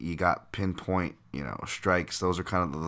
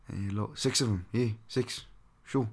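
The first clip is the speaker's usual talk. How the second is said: "six" said the New Zealand way, like "sex", with a swallowed vowel and a higher pitch; New Zealand accent demo; 5 semitones higher than usual. Shown as a demonstration. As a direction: show how a Kiwi says "six". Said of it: "pronounced words like six, sex".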